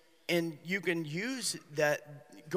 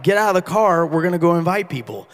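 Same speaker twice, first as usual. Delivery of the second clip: firm command; 12 dB louder than usual. Retold or imitated. Pastor ordering kids out.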